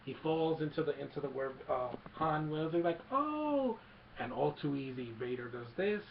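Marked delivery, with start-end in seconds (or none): 3.1-3.8 high-pitched mock cry of "oh"; imitated startled yelp. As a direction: let out a high, drawn-out oh. Acting out a startled reaction.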